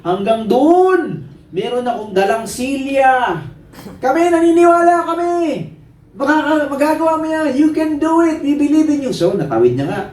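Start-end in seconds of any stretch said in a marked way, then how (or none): 0.1-3.3 higher, projected call to a crowd; tightrope walker showman. Acted. Tightrope walker challenging his audience, showman's high call. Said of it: "Di sabi niya". 4.0-9.1 high-pitched eager shouts; cheering crowd. Acted. Crowd answering the tightrope walker, excited high cheering.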